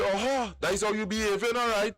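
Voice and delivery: policeman's retort. Retold or imitated. Policeman voiced in retold story.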